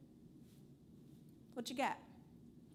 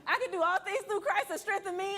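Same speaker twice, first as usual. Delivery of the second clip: laughing scripture; 8 semitones higher, 6 dB louder than usual. Real, not acted. Laughing while quoting scripture.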